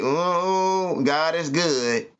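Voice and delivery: mock-pious, slow and sarcastic. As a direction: drawl it out sarcastically. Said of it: "Sarcastic like a motherfucker".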